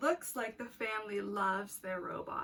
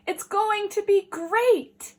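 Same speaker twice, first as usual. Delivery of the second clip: higher, louder, slow excited mum; excited Mom; 9 semitones higher, 12 dB louder, slower than usual. Acted. Mom thrilled about the new robot, slow and excited.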